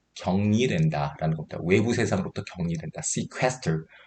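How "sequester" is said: sequester with stress on second syllable ques. Explaining english vocabulary in korean, stress on second syllable ques. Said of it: "이음절의 강세가 있고요".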